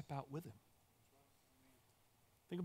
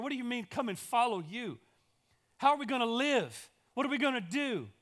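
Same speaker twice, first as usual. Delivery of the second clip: higher and louder, casual pushback; incredulous objection; 4 semitones higher, 5 dB louder than usual. Acted. Disciples telling Jesus they have jobs and families, incredulous. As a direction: talk back like a buddy who thinks it's crazy.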